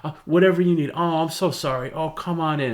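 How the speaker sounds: high, loud fussing mom; high doting mom voice; gushing mother. Retold or imitated. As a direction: fuss over the son, overly sorry. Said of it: "She's like".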